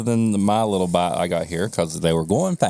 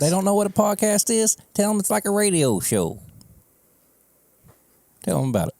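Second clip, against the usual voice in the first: higher, pushy urging; playful nudging; eager coaxing; 10 semitones higher than usual. Pretend. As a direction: egg the listener on. Coaxing listeners to share show.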